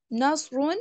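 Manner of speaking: slow نصرون with a thick, dark s; emphatic heavy s in نصرون; full heavy sad. Shown as a demonstration. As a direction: draw out نصرون, filling the mouth on the s. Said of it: "اس میں سواد کو بھی پر پڑھنا ہے".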